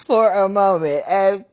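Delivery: loud, laughter-charged repeat; amused and loud. Real, not acted. Telling viewers about visiting HR, loud and cracking up. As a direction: push it out between bursts of laughter.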